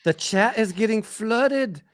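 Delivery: put-on high, hammy Canadian accent; a weak attempt at a Canadian accent. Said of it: "that was my weak attempt at a, a Canadian accent".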